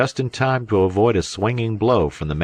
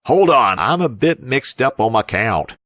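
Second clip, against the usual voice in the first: high, loud roar of alarm; 7 semitones higher, 5 dB louder than usual. A narrator's reading. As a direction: yell it as he's hauled aboard. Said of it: "roared Uncle Salters".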